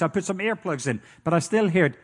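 ordinary delivery

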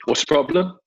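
English producer gone LA, faint mid-Atlantic twang. Retold or imitated. LA producer strides in asking the problem, mid-Atlantic twang. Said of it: "mid-Atlantic twang".

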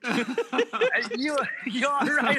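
high, imitated Jamaican lilt; Jamaican accent. FedEx driver to his friend, Jamaican accent. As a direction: check on him in a Jamaican accent. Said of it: "the Jamaican guy goes".

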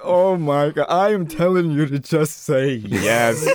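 slow, emphatic mock outburst; exasperated mom. Mom scolds grandpa after the failed call, exasperated. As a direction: imitate an exploding mother, stretching the key words. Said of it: "my mom just exploded".

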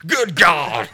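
loud shocked demon. Retold or imitated. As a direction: shout it like a startled demon. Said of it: "calls a demon".

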